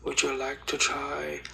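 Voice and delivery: comic attempt at an Irish accent. Barista offers a customer an Irish Scotch latte, Irish accent. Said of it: "do a good Irish accent".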